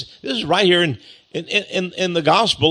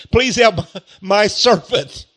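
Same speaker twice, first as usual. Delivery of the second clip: slow, raised plea; pleading; 4 semitones higher, slower than usual. Acted. Household employer asking Jesus for a servant's healing, pleading. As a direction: plead for someone else, slowly and pitched up. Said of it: "How many would go to Jesus Christ and say".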